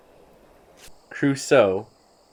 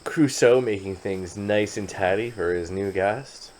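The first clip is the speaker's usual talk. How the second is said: storybook narration; slower than usual. Acted. Narrates the colonist's actions.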